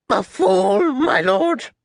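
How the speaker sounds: high, submissive answer, lifting at the end; cowed captain. Acted. Kicked captain answers his lord, submissive. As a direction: echo it meekly in a high voice. Captain meekly repeats the insult.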